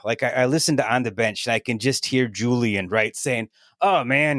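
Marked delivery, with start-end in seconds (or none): 3.8-4.4 Julian's Australian accent attempt. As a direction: start into Julian's Australian accent, then give up. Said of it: "I can't do the Australian accent".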